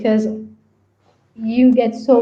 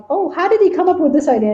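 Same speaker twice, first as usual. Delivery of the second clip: higher, lightly acted wondering question; mock curiosity; 6 semitones higher than usual. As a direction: ask like an impressed listener. Voices someone asking about the idea.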